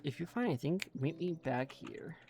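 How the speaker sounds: lightly voiced old dwarf explorer, chatty; a hint of a fussy old dwarf rambling on; lightly voiced dwarf NPC reading his quest; forgetful old dwarf.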